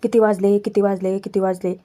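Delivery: low, droning imitation of a nagging elder; nagging repetition. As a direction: pester with the same question, voice sinking. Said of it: "ते सततच त्या धन्याचं डोकं खायला लागतात".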